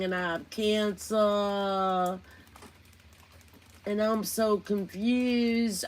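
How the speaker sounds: slow, dragged-out whiny mock lament; lightly voiced mock despair, slow; mocking Miss Analyzer. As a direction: drawl it out like a self-pitying drama queen. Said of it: "They used to do it with Miss Analyzer".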